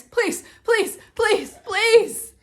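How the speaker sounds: high, loud whiny pleading; begging. Acted. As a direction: beg like a kid who won't give up. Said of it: "I beg my parents".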